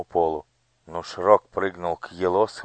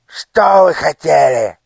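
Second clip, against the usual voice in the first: loud, high, threatening demand; a cruel minister bullying a child; menacing interrogation; 10 semitones higher, 12 dB louder, slower than usual. Acted. (угрожающий допрос)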